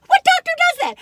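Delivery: high, loud mock amazement; doctor amazed at the odd lump, high and loud; amazed quote. Doctor's amazed question retold.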